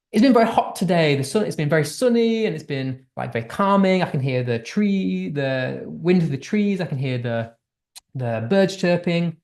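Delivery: gentle, unhurried, pleasant description; calm positive tone. Shown as a demonstration. Teacher reading out a calm, positive passage. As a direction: paint a peaceful sunny day. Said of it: "That tone is much more positive".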